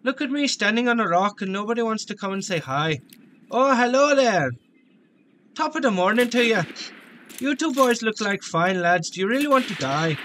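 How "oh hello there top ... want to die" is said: lightly put-on Irish accent; hammed-up Irish lilt. Gamer greeting two enemy lads, put-on Irish accent. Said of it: "The Irish accent fell off".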